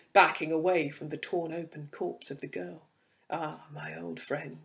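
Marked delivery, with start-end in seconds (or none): 3.3-4.6 creature taunt. Acted. Creature mocking him.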